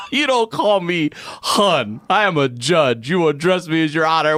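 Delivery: high, emphatic mock scolding; imitated stern judge. Judge correcting the aunt, high mock-indignant rebuke.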